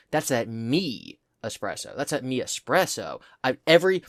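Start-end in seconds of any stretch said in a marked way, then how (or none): 0.1-2.0 slow, softer "That's" lead; trying another emphasis. Shown as a demonstration. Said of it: "every single possible combination, of emphasis". 2.0-3.2 "that" slightly leaned on; trying another emphasis. Shown as a demonstration. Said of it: "every single possible combination, of emphasis".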